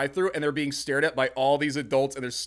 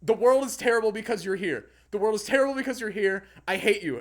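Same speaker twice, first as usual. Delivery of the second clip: retold insult; 6 semitones higher, faster than usual. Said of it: "but I was like".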